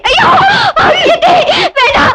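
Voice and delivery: high, sobbing screams for mercy; crying pleas. Acted. Stepdaughter screaming and pleading while the stepmother beats her. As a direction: beg her to stop hitting, crying out.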